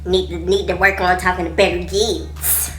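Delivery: loud, slow, drawn-out lecturing cop; mock tough officer. Officer lecturing the girls, loud and slow. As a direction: talk down to the girls like a stern cop. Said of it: "this other dude came up in here like".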